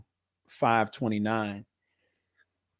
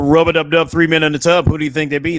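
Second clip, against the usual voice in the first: playful rhyme; 3 semitones higher, 9 dB louder, faster than usual. Pretend. Host recites a nursery rhyme playfully.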